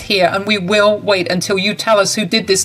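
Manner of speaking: firm fiancée. Acted. Violet insists, Mabel pleads.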